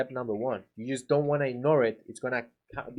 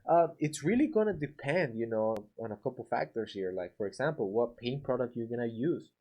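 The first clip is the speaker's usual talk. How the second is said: lightly voiced, upbeat opener then easy explaining; friendly contractor reply; 3 semitones lower than usual. Shown as a demonstration. Contractor easing a price question, lightly voiced reassuring tone. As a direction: model the polite answer to the homeowner. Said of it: "the way that you resolve is you say something like".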